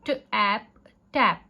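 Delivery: ट and ऐप said apart, then joined as short-A टैप; short vowel blending. Shown as a demonstration. Teacher repeating the short vowel example, sounded-out blending. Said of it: "वो short है".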